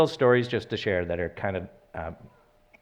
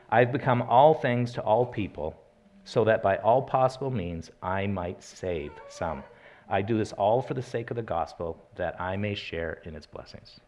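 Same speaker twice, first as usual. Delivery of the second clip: raised, measured Bible reading to the congregation; scripture reading. Acted.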